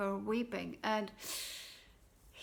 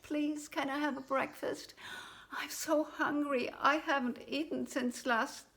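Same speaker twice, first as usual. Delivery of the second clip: put-on pleading boy; 5 semitones higher than usual. Jack begs for food.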